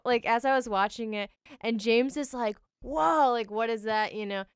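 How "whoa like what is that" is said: mildly startled. Retold or imitated. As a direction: imitate a friend's amazed reaction, lightly. Retelling a companion's startled question.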